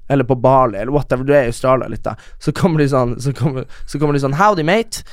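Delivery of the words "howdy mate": higher, hammed-up Aussie greeting; mock a returning exchange student's Aussie accent; mock Australian accent. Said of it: "Australia og tar sånn surfekurs". (hånlig australsk aksent, lyst)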